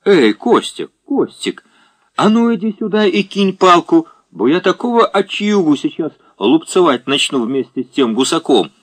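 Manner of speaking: громко и высоко окликнуть; строгая бабушка кричит; громкий окрик. A narrator's reading. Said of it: "крикнула Франтишка Игнатьевна". (громкий окрик)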